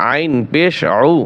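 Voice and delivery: আইন pressed from inside the throat; throat-pressed ain. Shown as a demonstration. Quran teacher showing learners the letter, আইন pressed in the throat. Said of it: "গলার ভিতরে আইন চাপিয়ে বলতে হবে".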